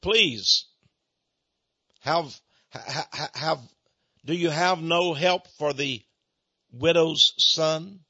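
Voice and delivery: halting, stammered mock plea for help; understated imitation of a dying man's plea, drawn out at the end; retold plea. The preacher retells a shot man's cry for help, halting mock plea. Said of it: "he cried out".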